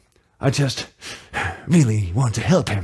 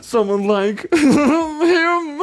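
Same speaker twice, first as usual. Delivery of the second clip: much higher, loud, hammed-up villain with cackles; panicked cartoon killer; 4 dB louder than usual. Killer panicking after the crime, shrill hammy scheming. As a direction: play the frantic murderer scheming out loud.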